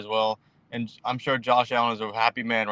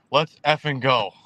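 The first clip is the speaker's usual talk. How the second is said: drawn-out, hyped rallying cry; slow, punchy burst of real excitement; 4 dB louder than usual. Real, not acted. Caller celebrating his team's contract news, hyped. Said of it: "I'm so hyped right now".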